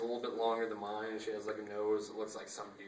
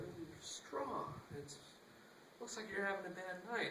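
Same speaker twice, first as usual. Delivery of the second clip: bartender voice; 9 semitones higher, 6 dB quieter than usual. Retold or imitated. Bartender voiced again, drawn out.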